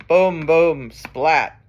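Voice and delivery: loud booms, then a splat; thunder and lightning. Acted. Reader reviewing the storm with children, loud booms. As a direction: boom like thunder and end on a splat. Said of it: "Mister Brown makes thunder".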